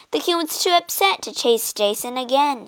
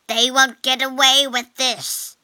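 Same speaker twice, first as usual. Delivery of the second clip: mild angry shout; 3 semitones higher, 3 dB louder than usual. Acted. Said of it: "he shouted".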